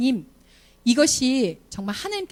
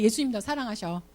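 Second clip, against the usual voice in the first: softer, 예수님 said gently with a falling close; gentle reassurance; 5 dB quieter than usual. Pretend. Teacher quietly assuring a troublemaker Jesus loves him. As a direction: tell the child tenderly he is loved.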